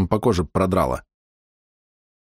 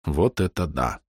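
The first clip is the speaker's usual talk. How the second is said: soft murmur; 4 semitones lower, 5 dB quieter, slower than usual. A narrator's reading. Narrator softly echoes.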